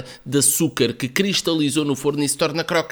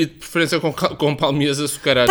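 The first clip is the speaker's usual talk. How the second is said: mouth full. Real, not acted. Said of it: "Está com a boca cheia".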